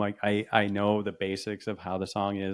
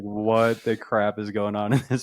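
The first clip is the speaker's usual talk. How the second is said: laughing; 3 dB louder, much slower than usual. Pretend. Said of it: "they're like".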